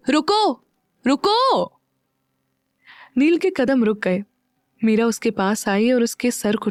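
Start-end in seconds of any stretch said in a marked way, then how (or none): 0.1-1.6 higher, raised call to stop him. A narrator's reading. Meera stops Neel leaving, raised higher call. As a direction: call him back, rising. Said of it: "थोड़ी तेज आवाज में बोली".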